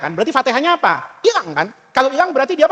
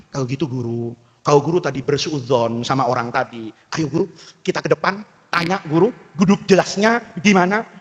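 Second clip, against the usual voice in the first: student's plea; 8 semitones lower than usual. Retold or imitated. Student voiced in retold story.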